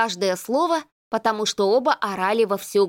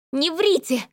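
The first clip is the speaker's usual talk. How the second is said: tense ringing voice; 7 semitones higher than usual. Acted. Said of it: "Голос Серафимы звенел от напряжения".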